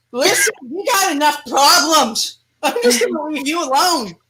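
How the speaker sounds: whiny demon. Acted. Demon whining to its out-of-shape host, hammed up. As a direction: complain like a demon stuck in an unfit body.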